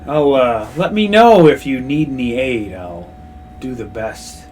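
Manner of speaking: lightly voiced dragon lord, fading quiet; a hint of a dragon, trailing off softly. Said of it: "As the dragon's voice echoes in your ears".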